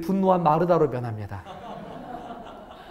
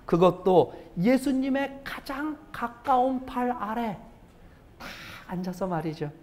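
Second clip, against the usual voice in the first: soft serene description; 2 semitones higher, 6 dB quieter than usual. Acted. Describes Mary sitting serenely.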